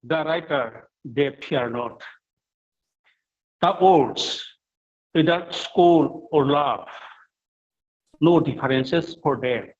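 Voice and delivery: measured verse reading in short, separated phrases; poem reading. Acted. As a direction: read the translated poem deliberately, pausing after each phrase. Reads poem's English translation.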